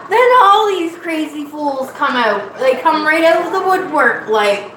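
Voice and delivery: country accent put on for live viewers. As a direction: play it up like a folksy country cook. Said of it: "Country accent".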